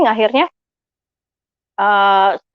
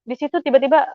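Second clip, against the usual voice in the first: usual speaking voice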